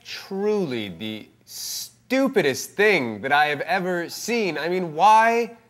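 mildly exasperated scolding; lightly voiced Jesus losing patience; a hint of scornful Jesus. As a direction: tell them off as a disgusted judge. Judge playing Jesus berating.

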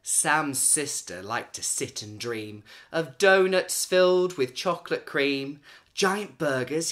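lively storybook narration, rhyme bouncing along; cheerful read-aloud for little kids; reading to children. A narrator's reading. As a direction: read it like a bedtime picture book. Reading a picture book aloud.

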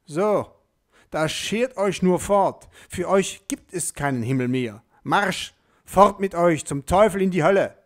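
laut und hoch, schnell davonjagend; wütender Rauswurf. A narrator's reading. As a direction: jag sie wütend fort. Petrus jagt die Deutschen fort. (Petrus jagt die Deutschen schreiend fort)

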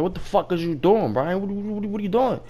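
high-pitched mock outrage; retold exasperated boss. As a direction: sputter in disbelief as the boss. Retold boss catches worker at mess.

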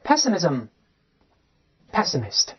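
"pessimism, pessimist" read slowly, one by one; teacher modelling each word, with a long pause between; separate model readings. Shown as a demonstration. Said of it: "咱们分别读一下".

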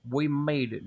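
put-on Southern twang; triumphant line in a hammed-up Southern accent; mock Southern accent. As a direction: slip into a playful Southern US accent. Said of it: "Now I've developed another accent".

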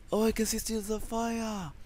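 excited slip, words in the wrong order. Real, not acted. Gamer spotting the fire, blurting in jumbled order. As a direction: blurt it out with still before see. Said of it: "What the fuck is wrong with my English?".

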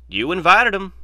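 an exasperated outburst at Gennaro. Acted. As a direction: throw up your hands and blame him.

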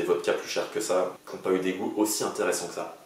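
glass against lips; words into a glass; talking while sipping. Real, not acted. Seen 1: Glass held at lips through all labelled frames; head tilts to drink after.

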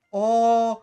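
sudden loud gasp of surprise; startled cry at suddenly flying; surprised shout. Real, not acted. (ani şaşkınlık çığlığı)

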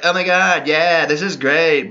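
a hint of gushing, easily impressed fan; dumb fan. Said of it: "if you're dumb enough".

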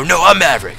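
a hint of a movie hero insisting; Maverick line. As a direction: say it like a Top Gun hero. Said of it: "you're supposed to go".

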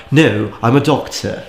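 slow, mock-posh British delivery; posh British accent. Explaining the film villain cliche, mock-posh British accent. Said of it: "it's always posh".

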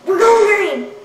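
high electronic voice changer. Acted. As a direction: sing it out through the voice changer. Showing voice changer effect.

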